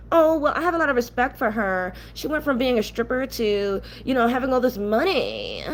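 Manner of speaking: put-on voice parroting someone's praise; mocking quote. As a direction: mimic a fan gushing, to make her sound dumb. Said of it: "I've heard black women say out of their mouth".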